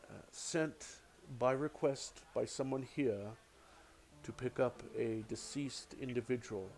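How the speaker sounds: lightly voiced solemn temple cleric. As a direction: recite the temple's errand gravely. Cleric speaks solemnly at door.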